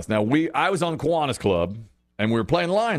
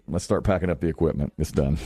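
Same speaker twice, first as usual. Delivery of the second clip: low, deadpan giving up; resigned teammate; 6 semitones lower than usual. Retold or imitated. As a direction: say it low, as if the game is already lost. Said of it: "and he's like".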